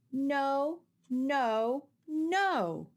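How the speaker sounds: a storybook yell of no, no, no; child's hammed-up protest, loud and high. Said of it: "yelled Flora".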